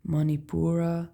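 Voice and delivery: Manipura with stress on pu, man-ee-POO-rah; Manipura said carefully. Shown as a demonstration. Explaining to viewers how Manipura sounds, careful pronunciation. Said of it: "Manipura, pu".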